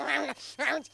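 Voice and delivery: high mock-feral noise; imitated crazed snarl. Imitating a man on meth on the subway, high feral noise.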